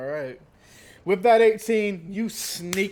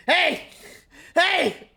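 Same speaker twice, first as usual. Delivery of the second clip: high, sharp yell of protest; startled bouncer's high shout; 11 semitones higher, 4 dB louder than usual. Acted. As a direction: yell out at whoever just hit you. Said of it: "As he starts yelling".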